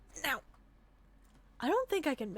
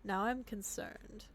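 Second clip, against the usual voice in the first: ordinary talk, nothing marked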